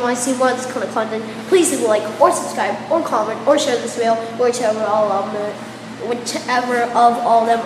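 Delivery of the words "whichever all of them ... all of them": stumbling over words with braces; speech tangled by new braces. Real, not acted. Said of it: "I cannot speak with these".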